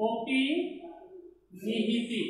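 অপিনিহিতি drawn out very slowly and softly; slow, soft term. Shown as a demonstration. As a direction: say অপিনিহিতি slowly so the spelling sinks in. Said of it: "বানানটা অবশ্যই তোমরা খেয়াল করবে". (ধীরে নরম করে অপিনিহিতি)

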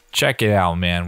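ordinary talk, nothing marked

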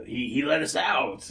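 put-on slow, muddled Russian-New York accent. Henchman recalling his release, muddled Russian accent. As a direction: drag out a shaky Russian accent. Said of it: "general purpose, wrong turn in New York accent".

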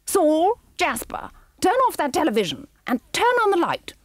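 high, loud, fast barking orders; shouted. Acted. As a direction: shout across the room at her henchmen. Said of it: "Then she shouted".

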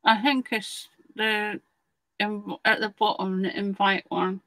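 talking round a paintbrush in mouth; mouth full. Real, not acted. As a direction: speak with a brush held in the mouth. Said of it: "I've got paintbrush in my mouth".

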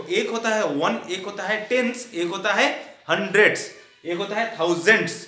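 loud, distinct final s on "हंड्रेड्स" and "थाउजेंड्स"; careful pronunciation. Shown as a demonstration. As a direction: place names said firmly, plural endings in टेंस, हंड्रेड्स, थाउजेंड्स. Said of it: "अच्छे से इसको pronunciation करना सीखो".

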